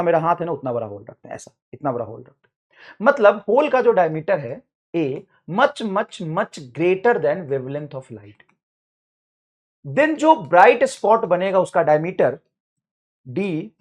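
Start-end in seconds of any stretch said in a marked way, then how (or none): 5.5-8.4 dictation. Shown as a demonstration.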